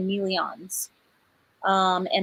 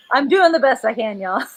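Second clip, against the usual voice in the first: loud, laughing plea; laughing apology; 2 semitones higher, 6 dB louder than usual. Real, not acted. Author excusing her accent to viewers, laughing apology. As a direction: protest good-humouredly through a laugh.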